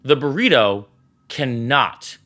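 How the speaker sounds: slow, low, deliberate warning, a touch of mock intensity; intense stern reminder. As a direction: lay down the rule slowly and heavily, half imitating her. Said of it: "she said it with that level of intensity".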